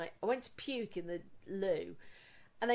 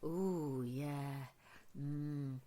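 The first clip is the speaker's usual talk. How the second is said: lightly voiced doctor; 6 semitones lower, 8 dB quieter, much slower than usual. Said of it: "he was like".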